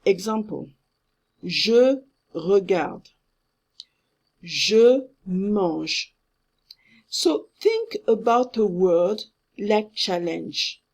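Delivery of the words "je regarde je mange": "je regarde, je mange" slowly, final E unsounded; silent final E. Shown as a demonstration. Teacher gives examples to students, silent final E. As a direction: end "regarde" and "mange" on the consonant. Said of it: "you don't pronounce the final E".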